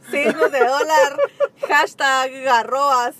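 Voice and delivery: slow, laughing through the words. Real, not acted. Echoing her co-host's joke, laughing. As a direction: let the laugh spill into it.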